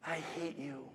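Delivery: very soft, drained retelling; hushed echo. Retold or imitated. Mother fifteen feet ahead of the boy, hushed echo. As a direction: let the insult fall almost to nothing. Same insults echoed from far ahead.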